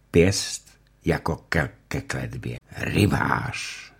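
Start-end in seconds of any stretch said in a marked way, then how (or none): 2.8-3.9 moan. Acted. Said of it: "zaupěl Ulenšpígl znova".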